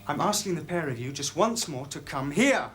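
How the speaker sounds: restrained demand, patience running out; controlled exasperation. Acted.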